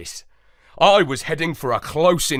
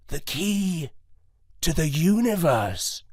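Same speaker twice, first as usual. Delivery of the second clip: lightly voiced old dog; 3 semitones higher than usual. A narrator's reading. Moondog reveals the key.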